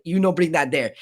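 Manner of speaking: light imitation of an African accent. Retelling what the security lady told them, African accent. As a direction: put on a mild African accent. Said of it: "She has that African accent".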